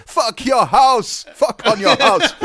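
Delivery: loud, slow, high mock wrestler bellow; wrestler catchphrase. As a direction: ham up the wrestler's taunt, laughing. Imitating Iron Sheik catchphrase.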